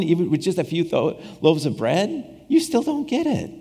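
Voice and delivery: lightly voiced Jesus waving the disciples over; exasperated Christ. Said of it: "And Christ is like".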